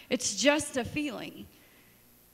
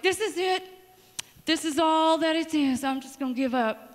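higher, hammed-up giving up; dramatic despair; 4 semitones higher than usual. Telling God she quits, hammed-up high despair. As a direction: throw up your hands dramatically.

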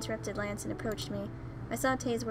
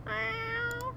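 very high kitten mew; tiny cat meow; 12 semitones higher than usual. Acted. Cat crying beneath someone's legs, high meow. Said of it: "I heard a tiny cat crying".

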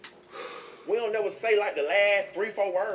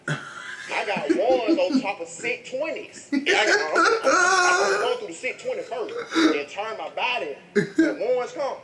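high, loud laughing through the words; words broken by loud laughter; laughing hard; 7 semitones higher, 6 dB louder, slower than usual. Real, not acted. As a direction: crack up while telling it. Laughing while telling stack trick.

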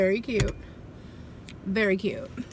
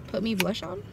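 softer questioning repeat, rising; puzzled echo; 4 dB quieter than usual. Real, not acted. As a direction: question her own odd phrasing. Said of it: "Yeah, put blush on, I mean".

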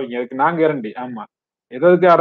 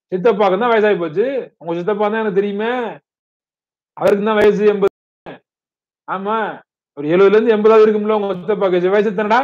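higher-pitched, worked-up questioning; tense questioning; 5 semitones higher than usual. Acted. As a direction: press the weeper for an answer, pitch raised. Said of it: "tension ஆயிட்டாரு".

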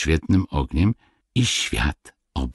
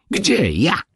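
startled cry; 13 semitones higher than usual. Acted. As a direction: blurt it out in shock. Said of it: "zakrzyknęły krasnoludki".

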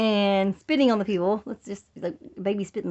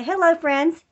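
prompting line; 7 semitones higher, 6 dB louder, slower than usual. Shown as a demonstration.

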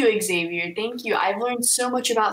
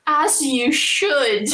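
Sassmaster's reply; 4 semitones higher, much slower than usual. Acted. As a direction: stretch each word out like a pleased, sassy pet. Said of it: "And Sassmaster will respond with?".

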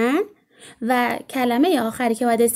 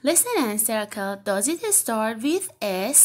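slow instruction; much slower than usual. Shown as a demonstration.

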